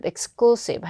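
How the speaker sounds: exclusive stressed on CLU; second-syllable stress. Shown as a demonstration. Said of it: "이음절 강세도 꼭 넣을 것". (exclusive의 둘째 음절에 강세)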